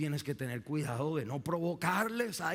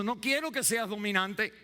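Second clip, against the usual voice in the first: preaching shout; 11 semitones higher, 6 dB louder than usual. Real, not acted. Preacher proclaiming God's command to parents, loud and high.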